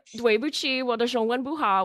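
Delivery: put-on Mandarin with a heavy American accent; foreigner speaking mandarin. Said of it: "I say it with a super American accent".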